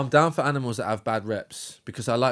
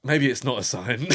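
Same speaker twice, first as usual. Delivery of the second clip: laughing. Real, not acted. Laughing while quoting.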